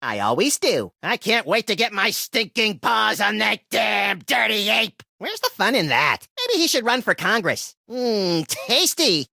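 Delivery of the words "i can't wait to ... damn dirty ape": hammed-up movie hero growl; movie line parody. Rabbit hamming up a famous movie line about apes. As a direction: play it like the classic ape movie line.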